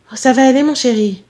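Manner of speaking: lightly acted maternal reassurance; reassuring mother. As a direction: soothe your darling son. Mother reassures her son.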